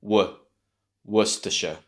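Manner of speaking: Worcestershire, WUUS stressed, then a weak tuh-shuh; first-syllable stress. Shown as a demonstration. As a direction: lean on the start of Worcestershire, let the rest reduce. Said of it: "stress at the beginning of the word".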